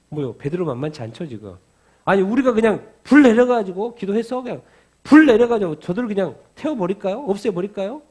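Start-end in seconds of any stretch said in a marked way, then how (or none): 2.0-8.0 very loud, high, heated outburst; indignant shouting that eases off at the end; acted explosive anger. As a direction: play hot-headed disciples bursting with rage. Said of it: "폭발한 거죠".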